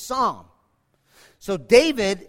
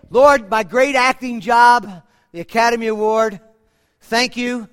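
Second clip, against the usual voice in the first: louder, hammed-up award speech; mock boastful thanks; 8 dB louder than usual. Preacher mocking a boastful prayer David never said, hammed-up. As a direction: puff up like a smug winner.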